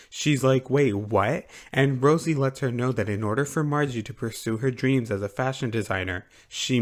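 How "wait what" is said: puzzled, acted double take; retold bewilderment; mock confusion. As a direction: imitate someone baffled and caught off guard. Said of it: "Ai's confused".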